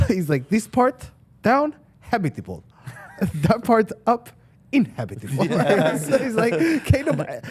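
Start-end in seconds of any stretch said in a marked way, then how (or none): 0.5-5.4 put-on Russian accent. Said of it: "in his Russian accent". 6.8-7.4 put-on Russian accent. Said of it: "in his Russian accent".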